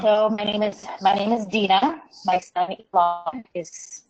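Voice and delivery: loud, garbled, as if underwater; shouting on bad phone line. Real, not acted. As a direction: speak up over a broken line. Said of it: "it's very garbled and we can't really understand".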